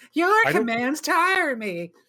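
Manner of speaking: put-on very high, loud, high-pitched voice. Describing a game character, the speaker quotes his line: imitating a high-pitched character. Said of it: "He's the one with the high pitched voice".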